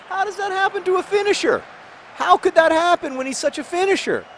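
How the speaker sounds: squeaky, incredulous lament; high-pitched disbelief. Real, not acted. Despairs at a missed chance.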